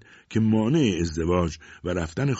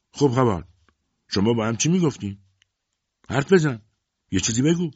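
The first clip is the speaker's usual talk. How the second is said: demanding mother; 5 semitones higher, 5 dB louder than usual. A narrator's reading. Mother interrogating her son.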